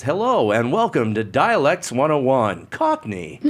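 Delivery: loud, high, slow Cockney tape presenter; Cockney dialect-tape host. Retold or imitated. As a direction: imitate a Cockney instruction-tape announcer. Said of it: "I remember the Cockney one would say".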